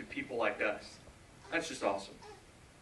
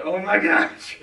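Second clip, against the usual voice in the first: high, loud retold outburst; retold losing it; 7 semitones higher, 12 dB louder, slower than usual. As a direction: burst out, reenacting the moment of losing it. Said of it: "I just lost it there".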